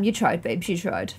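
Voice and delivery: soft, low mock consolation; hushed, low and sympathetic; gentle consoling. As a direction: console a pet character tenderly. Consoles her game character after failing.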